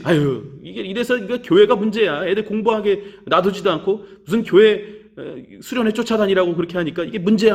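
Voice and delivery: retold sneering complaint, lightly acted; mocking teachers. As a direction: imitate teachers tutting and teasing a student. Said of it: "막 마치 나를 놀리듯이".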